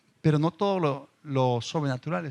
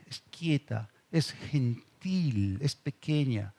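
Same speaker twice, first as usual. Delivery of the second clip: softly spoken; 4 semitones lower, 5 dB quieter, much slower than usual. Shown as a demonstration. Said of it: "la voz de Dios en tu espíritu es suave".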